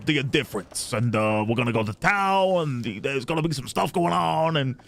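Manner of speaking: loose, hammed-up Jersey-style American accent; attempted Jersey accent. Streamer parodying a writer's book plug, mock Jersey accent. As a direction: ramble in a rough Jersey accent. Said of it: "I'm not from Jersey".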